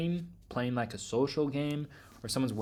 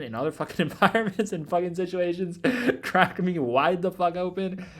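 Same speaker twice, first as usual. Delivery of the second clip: breaking into laughter mid-sentence, louder; laughing while talking; 5 semitones higher, 5 dB louder than usual. Real, not acted. To viewers about getting cracked open, laughing. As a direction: laugh through the words, slowing down.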